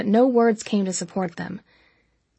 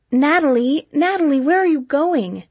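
higher, louder urgent call; raised-voice, anxious calling out; calling after someone; 6 semitones higher, 4 dB louder than usual. A narrator's reading. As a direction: call after a friend who is walking off. Friend chases after fleeing narrator.

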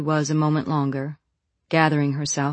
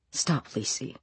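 ghostly chorus; 2 semitones lower, 9 dB quieter, slower than usual. A narrator's reading. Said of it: "the voices chorused".

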